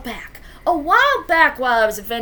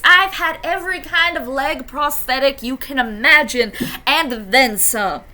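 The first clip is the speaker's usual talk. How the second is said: lightly voiced elder who keeps on talking; a slightly raised, emphatic old-timer's list; rambling grandparent; 3 semitones higher than usual. Grandmappa going on about past prosthetics, lightly voiced rambling elder.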